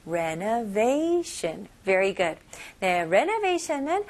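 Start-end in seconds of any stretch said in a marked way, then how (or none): 0.1-1.7 Renovation with the stress on va, said slowly; stress on the -va- syllable. Shown as a demonstration. Teacher drilling the stress for students, slow and stressed on va. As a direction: lean on the va in Renovation, drawn out slowly. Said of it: "they 부분에 좀 강세 주시면 좋아요".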